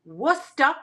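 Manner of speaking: "Worcester" said as WUSS-tuh; Worcester pronunciation. Shown as a demonstration. Seller teaching the name on the china, "Worcester" as WUSS-tuh. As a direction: say "Worcester" in two syllables, dropping the R. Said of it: "that's how you say it".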